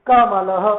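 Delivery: careful, syllable-by-syllable "कमलः"; visarga sounded. Shown as a demonstration. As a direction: end "कमलः" on a clear ha. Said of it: "आप उसको उच्चारित कैसे करोगे".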